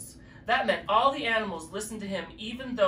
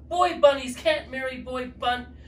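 loud, high angry rant; 6 semitones higher, 6 dB louder than usual. Acted. Stink bug ranting at the bunnies, loud and angry. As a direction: rant until cut off.

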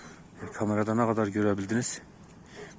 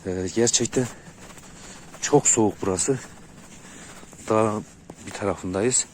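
trembling voice. Real, not acted. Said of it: "sesten dolayı titrediğim için öyle oluyor".

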